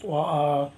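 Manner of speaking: wa'a slowed down, wah-ah with a break between the vowels; Hawaiian word. Shown as a demonstration. Navigator showing the Hawaiian word for canoe, slow wah-ah. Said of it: "they call it".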